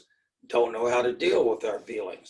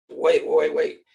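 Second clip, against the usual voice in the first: louder, quick mock objection; urgent interruption; 6 dB louder than usual. American Indian halting the picture exercise, urgent interruption. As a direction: cut in to halt the exercise. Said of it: "You talk to an American Indian".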